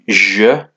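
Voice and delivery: "je" ending in a neutral schwa; unaccented E sound. Shown as a demonstration. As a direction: say "je" as zhuh. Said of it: "is like an E".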